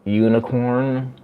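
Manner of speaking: slow, drawn-out mangled unicorn; "Mangled unicorn" spoken slowly, word by word. Shown as a demonstration. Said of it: "If I say it fast".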